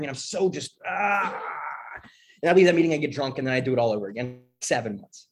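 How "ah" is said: high, drawn-out frustrated "aah"; imitated wordless outburst of anger; frustrated cry. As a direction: let out a pent-up groan of rage. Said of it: "I'm so angry".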